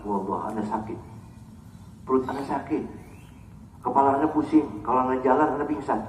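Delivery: ailing excuse. Acted. Acted sick person making excuses.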